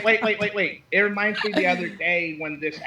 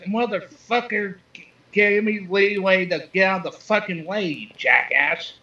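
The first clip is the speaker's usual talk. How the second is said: mild mock yell, drawn out; half-hearted retelling of an angry shout; retold scream; 4 semitones higher than usual. Caller retelling his clash with a cyclist, mock yell. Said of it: "I just screamed out".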